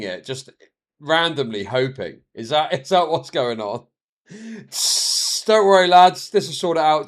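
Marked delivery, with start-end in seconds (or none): 4.7-7.1 put-on Indian accent. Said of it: "I can't do the Indian accent".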